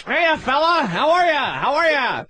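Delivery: high, chipper, stiff white comic greeting; corny white comic. Retold or imitated. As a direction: greet the crowd like a stiff, overly cheery comic. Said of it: "stick up his ass walk".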